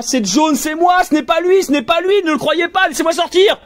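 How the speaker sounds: very high, frantic pleading cry; desperate cry. Acted. Buried voice crying inside the narrator, frantic high cry. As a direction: scream to be believed and freed. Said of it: "la voix ensevelie crie en moi".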